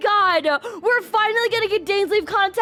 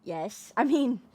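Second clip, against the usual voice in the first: lower, softer come-on; flirty; 10 semitones lower, 5 dB quieter than usual. Real, not acted. Streamer flirting with Dainsleif on screen. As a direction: purr the invitation low.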